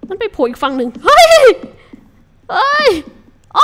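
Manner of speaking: loud, high alarmed yelp; startled shout. Real, not acted. Gamer startled by a mob popping up, loud yelp. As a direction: jump out of your skin. Mob suddenly appears other side.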